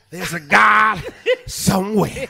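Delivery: loud preacher's outburst, dropping off after; mock preaching. Man playing preacher for laughing co-hosts, mock preaching. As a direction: playfully testify like a preacher. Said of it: "So he looked like he preaching".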